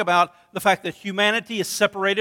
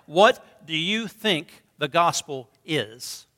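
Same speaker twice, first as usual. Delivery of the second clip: slow question; much slower than usual. Shown as a demonstration. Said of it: "here's the question I want you to jot down".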